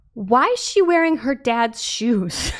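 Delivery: put-on child shouting. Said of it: "talking at the top of his lungs".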